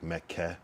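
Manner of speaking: "Mecca" with a hard, crisp K. Shown as a demonstration. Streamer tests his pronunciation for chat with a hard K. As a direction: bite down on the K in "Mecca". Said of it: "pronounce the K so hard".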